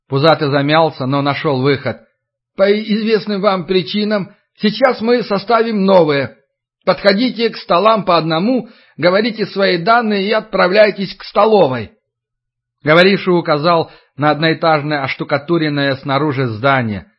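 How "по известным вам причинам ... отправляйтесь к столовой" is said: official announcement. Acted.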